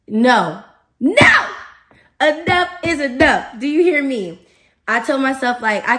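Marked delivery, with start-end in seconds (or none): 0.1-0.6 firm, loud refusal at normal pitch. Acted. Firmly refusing temptation, first take. 1.0-1.5 loud, high-pitched shout of no; shouted refusal. Acted. Firmly refusing temptation, escalated. 2.2-4.4 high, emphatic telling-off; stern self-scolding. Acted. Acted scolding of herself.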